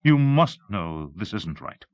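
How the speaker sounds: tearful, urgent plea; struggling for words. Acted. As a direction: plead with him through tears. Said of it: "she struggled to get out the words".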